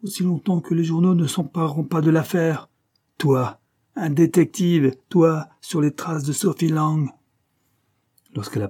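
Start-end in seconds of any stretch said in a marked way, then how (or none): 0.0-7.1 high, exasperated rebuke; barking. A narrator's reading. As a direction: scold with scorn, voice raised. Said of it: "aboya Parr".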